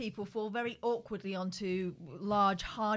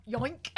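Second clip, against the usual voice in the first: cartoon yoink; 3 semitones higher than usual. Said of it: "I do talk like a cartoon".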